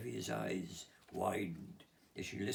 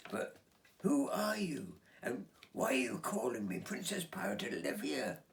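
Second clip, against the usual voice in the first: put-on puzzled girl; 7 semitones higher, 5 dB louder than usual. Olivia voiced in story.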